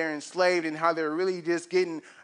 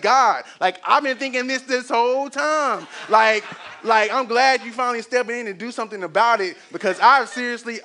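excited Moses; 4 semitones higher, 4 dB louder than usual. Acted. Imagined Moses eagerly answering God.

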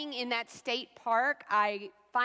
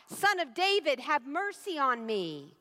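crying out; 2 semitones higher than usual. Acted. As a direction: cry out to be heard over the crowd. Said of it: "the man begins to cry out".

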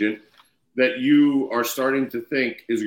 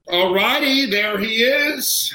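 big hall echo; 10 semitones higher, slower than usual. Real, not acted. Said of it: "You sound very echoey".

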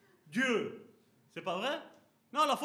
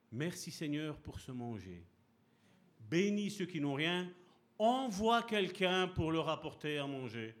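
mumbled grace; slower than usual. Retold or imitated. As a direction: murmur the table prayer half-heartedly. Quick mealtime prayer, voiced.

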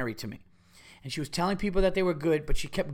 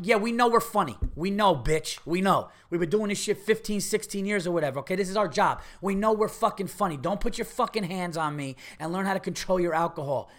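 imagined telling-off, higher and heated; indignant retort; 4 semitones higher than usual. Acted. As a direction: rant back at a drunk heckler. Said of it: "I wanted to be like this".

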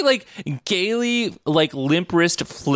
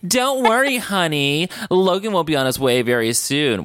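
cloaky villain voice; 6 semitones higher than usual. Retold or imitated. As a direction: purr it like a smug cloaked villain. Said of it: "talking in the cloaky voice".

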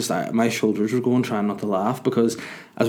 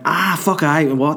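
mock gushing driver; 6 semitones higher, 4 dB louder, slower than usual. Sammy voiced again.

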